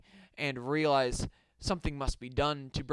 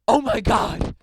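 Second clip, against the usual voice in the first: loud, raised cry of alarm; mock scream; 4 semitones higher, 11 dB louder than usual. A narrator's reading. Townsman spotting a giant teddy bear, mock scream. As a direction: scream it out in storybook panic. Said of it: "he screamed".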